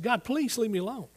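high-pitched pleading; re-enacted plea to God; retold begging. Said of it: "so I'm just begging him".

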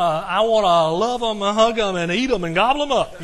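bursting with affection for the grandkids; gushing grandparent. Real, not acted. Preacher gushing loudly about his grandchildren. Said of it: "I'm just overwhelmed by it".

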